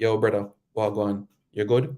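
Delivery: rhythmic Jamaican accent. Speaker comparing accents, showing how people in Jamaica talk, Jamaican accent. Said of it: "Like in Jamaica, say".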